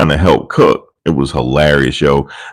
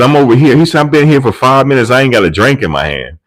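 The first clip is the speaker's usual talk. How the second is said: higher, whining about no drink; imitating a complaining man; lightly voiced peeved guest; mock whiny complaint; 7 semitones higher than usual. Retold complaint.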